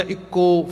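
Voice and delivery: ਇੱਕੋ as a separate word, long o; literal misreading. Shown as a demonstration. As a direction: say ਇੱਕੋ by the letters, without nasal ending. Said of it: "ਜੇ ਕਿਸੇ ਨੂੰ ਬਹੁਤਾ ਪਤਾ ਤਾਂ ਇਹ ਪੜ੍ਹੇਗਾ". (ਇੱਕੋ ਨੂੰ ਵੱਖਰਾ ਸ਼ਬਦ ਬਣਾ ਕੇ ਪੜ੍ਹੋ)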